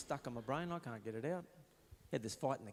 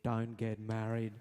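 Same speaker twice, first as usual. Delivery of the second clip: voice in my head; 3 semitones lower, 4 dB louder, slower than usual. Retold or imitated. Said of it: "I'll hear".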